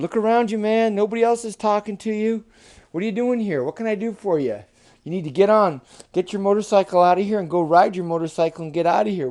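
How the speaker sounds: pushy bullfrog telling a rider to move along; brusque bullfrog. Acted. Bullfrog to boy on a motorcycle, brusque.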